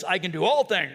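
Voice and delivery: mock-macho booming boast; gung-ho boast. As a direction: puff it up like a weightlifter's boast. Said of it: "that's normally kind of the Christian look".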